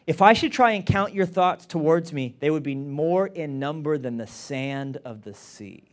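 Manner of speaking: loud scripture reading. Acted. Preacher reading scripture aloud, loud start.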